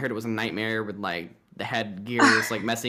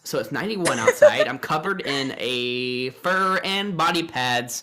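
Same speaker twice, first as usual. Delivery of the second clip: sarcastic quick maths; 7 semitones higher, 4 dB louder, slower than usual. Retold or imitated. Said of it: "It's like".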